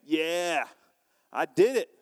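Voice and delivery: mock cocky bragging, punched out; hammed-up pride, in separate bursts; prideful boasting. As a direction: gloat like you beat everyone. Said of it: "It's the pride of man saying".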